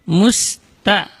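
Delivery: "musta" with a light, clear "ta"; "musta" as "mus-ta", never "to"; thin ta. Shown as a demonstration. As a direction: keep "musta" thin, ending in a. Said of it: "Itu tanya tipis".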